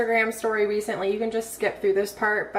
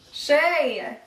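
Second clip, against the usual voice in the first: calling out; 5 semitones higher than usual. Real, not acted. Mom calling to crawling baby.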